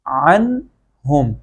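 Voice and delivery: عن ہم with a plain, distinct n before ہم; clear pronunciation. Shown as a demonstration. Teacher shows students how to read it, clear unmerged n in عن ہم. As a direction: sound the n of عن clearly, then ہم separately. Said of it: "بدلے اس کو پڑھیں گے".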